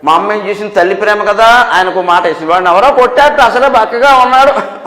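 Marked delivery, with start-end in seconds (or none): 2.5-4.8 fretting mother. Retold or imitated. Mother telling father someone hit her skinny son, imitated fretting. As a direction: imitate a protective mother's plaintive report.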